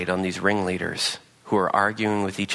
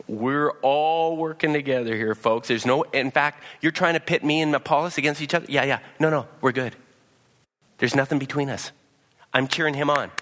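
cheery Paul; 4 semitones higher than usual. Retold or imitated. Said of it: "Paul's going".

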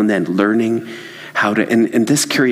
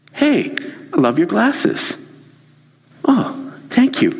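friendly compliment; 9 semitones higher, slower than usual. Shown as a demonstration. Demo of quick friendly compliment exchange.

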